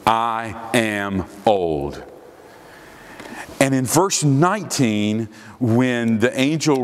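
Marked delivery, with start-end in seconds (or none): 0.1-2.0 put-on "I am old" very slow, word by word; emphatic. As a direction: weigh down each word of "I am old". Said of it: "it is very emphatic".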